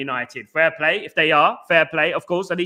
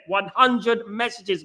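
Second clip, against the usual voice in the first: ONE HUNDRED MESSAGES slowly spelled out; slow, weighty stress on "hundred messages"; emphatic repetition; 3 semitones higher, much slower than usual. Real, not acted. Repeats the count for emphasis.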